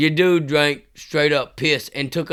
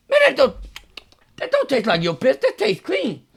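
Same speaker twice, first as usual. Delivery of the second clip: laughing mock verdict; 10 semitones higher than usual. Friend judges the piss taste.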